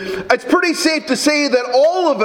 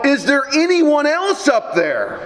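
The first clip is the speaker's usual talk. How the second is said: higher, slow call upward, no real volume; mock yell; 4 semitones higher than usual. Tourist calling to heaven for someone else, mild mock yell. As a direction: act a drawn-out yell without shouting. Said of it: "the tourist began to yell".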